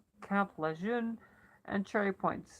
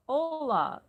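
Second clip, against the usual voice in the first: bright greeting; 8 semitones higher, 5 dB louder than usual. A narrator's reading. Stone answers the phone.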